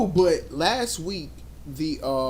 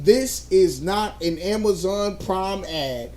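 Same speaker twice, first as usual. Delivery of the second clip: disclaimer; slower than usual. Pretend. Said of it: "put in the description".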